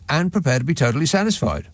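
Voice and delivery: put-on bright old-time radio ad voice; chipper 1950s ad. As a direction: sell it like a vintage commercial. Mock advert plug for podcast.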